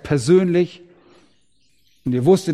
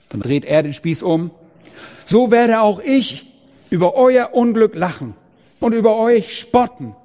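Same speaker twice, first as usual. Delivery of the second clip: God's rebuke; 4 semitones higher than usual. Acted.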